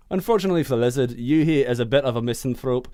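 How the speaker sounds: put-on reading the synopsis in a rough Irish accent; a fast first stab at an Irish accent. Co-host asked for Irish, so he reads in an Irish accent. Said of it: "Let's do Irish".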